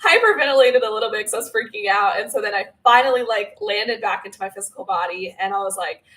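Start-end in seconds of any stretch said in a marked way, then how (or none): none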